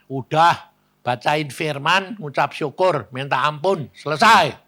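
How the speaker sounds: brisk command. Retold or imitated. Pastor instructing the wife what to do, commanding. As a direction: order it firmly, ending in a loud burst.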